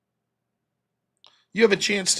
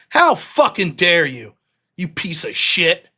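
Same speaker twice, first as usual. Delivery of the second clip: slow, louder retold anger; slow, louder angry telling-off; enraged; 4 dB louder, slower than usual. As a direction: lean into each word, furious. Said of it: "Fucking enraged me".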